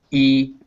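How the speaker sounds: "E" as the "ee" in see; long E sound. Shown as a demonstration. Teacher lists one letter's sounds, "E" as long ee. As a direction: say "E" as a held "ee" vowel. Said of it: "one letter can be".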